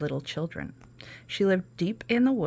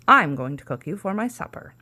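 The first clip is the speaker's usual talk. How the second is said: louder gleeful witch threat; gloating witch; 6 dB louder than usual. Acted. Witch telling Sasha she will cook her, louder gloating. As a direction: savour the threat.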